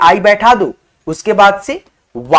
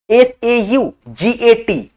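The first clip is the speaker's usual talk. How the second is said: slow spelling; much slower than usual. Shown as a demonstration. Teacher spells out slowly.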